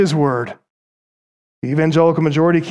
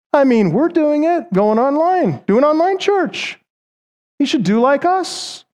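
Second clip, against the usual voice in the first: higher, smug preachy scolding; mocking self-righteous pastors; 3 semitones higher than usual. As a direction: parody the pastors lecturing Pastor Coates. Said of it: "they sounded a lot like Isaiah sixty-six five".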